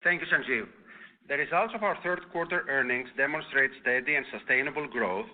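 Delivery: normal talking voice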